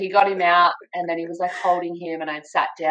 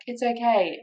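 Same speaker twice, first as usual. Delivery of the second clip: lightly voiced reassurance, higher and unhurried; calm dad, imitated; 6 semitones higher than usual. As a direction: gently reassure as a calm father. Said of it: "my dad is just so calm".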